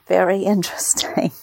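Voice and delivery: laughing through the word interesting; chuckling mid-word. Real, not acted. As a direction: let a laugh break into interesting.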